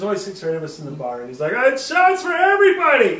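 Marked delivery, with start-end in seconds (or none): 1.5-3.2 put-on loud, much higher drunk bellow; drunken shout. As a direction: announce rounds like a hammered stranger. Drunk man buying bar rounds.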